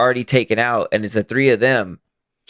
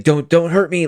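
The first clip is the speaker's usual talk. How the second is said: higher-pitched pleading, lightly acted; mock cowering; 7 semitones higher than usual. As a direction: imitate someone cowering in fear. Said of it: "cowering where he's like".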